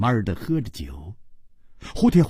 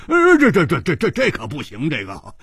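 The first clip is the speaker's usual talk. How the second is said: panicked shouting. Acted. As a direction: burst out in alarm, tripping over the words. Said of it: "胡铁花大叫起来说". (大叫起来，慌得直结巴)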